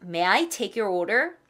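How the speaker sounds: slow, courteous, order rising; waiter asking. Acted. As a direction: play a waiter at the table. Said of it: "자". (손님에게 주문받는 웨이터처럼)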